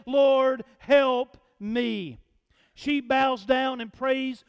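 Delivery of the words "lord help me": firm, louder prayer for help; emphatic plea. Retold or imitated. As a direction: plead it out with force. Quoting the woman's prayer.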